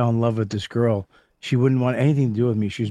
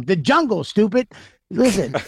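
raised-pitch mocking taunt; mock Keith insult; 6 semitones higher than usual. Friend mocks a woman's answer, higher sneer.

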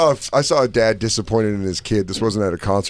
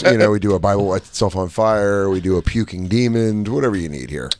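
salesman voice; 4 semitones lower than usual. Retold or imitated. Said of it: "He goes".

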